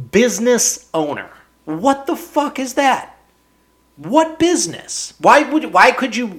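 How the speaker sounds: mock outrage at the title; high-pitched exasperated questions; incredulous rant. Real, not acted. Ranting at vague title.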